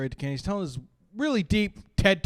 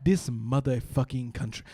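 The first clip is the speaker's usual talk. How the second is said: put-on slow, low disgusted African accent; cab driver's African accent; 4 semitones lower, 3 dB quieter, slower than usual. African driver eyeing his ruined lunch, slow accented disgust. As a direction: let it out slowly in an African accent. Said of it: "looked up at me and went".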